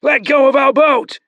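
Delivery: put-on high, loud creaky demand from an old man; old man ordering them off, creaking; old white-haired man demanding loudly. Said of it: "he demanded, in a voice as creaky".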